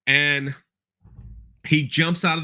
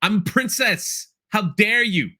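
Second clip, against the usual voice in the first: mock-indignant little princess, pitched up; Leia; 6 semitones higher than usual. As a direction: imitate a haughty child princess taking offence. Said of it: "and Leia's just".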